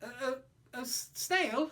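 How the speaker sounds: high, stuttering question; stammering disbelief. Acted. Child stammers at the snail, high and unsure. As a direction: stumble over the word in shock. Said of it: "I said".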